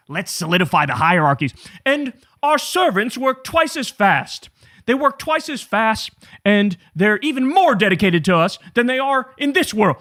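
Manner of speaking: pompous elite dreaming of servants; lightly hammed-up aristocrat; snooty rich voice. Voicing rich people's heaven.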